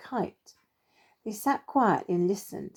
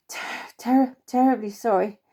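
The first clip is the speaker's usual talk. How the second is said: out of breath; 2 semitones higher than usual. Acted. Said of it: "He was breathing so heavily".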